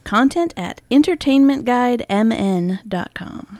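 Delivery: slow, clear announcer read; radio voice. Shown as a demonstration. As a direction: spell out the address like a DJ. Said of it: "That was my radio voice".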